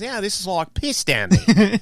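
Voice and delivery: imitating the Australian guest's complaint; Australian accent. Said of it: "he goes".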